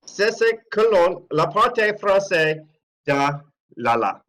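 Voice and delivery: hammed-up French accent reading out the awards; mock French announcer. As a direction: announce the top three like a French broadcaster, French accent. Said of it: "did it sound like he was speaking German".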